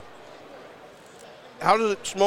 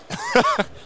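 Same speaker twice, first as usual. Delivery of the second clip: squealing high laugh. Real, not acted. Laughs after "cost me money.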